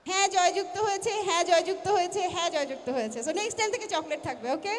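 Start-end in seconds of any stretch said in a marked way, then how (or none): 0.1-1.1 ceremonial announcement. Acted. Announces vote result. 1.3-2.2 loud proclaiming chairman call; ceremonial announcement. Acted. Repeats vote result.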